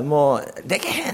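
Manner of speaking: quick Kansai-ben quote; Kansai dialect. Retold or imitated. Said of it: "関西弁で言うたら".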